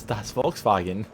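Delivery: slow, hammed-up German accent again; drawn-out joke German accent; bad German accent. Teasing the car with a bad German accent. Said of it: "having a terrible German accent".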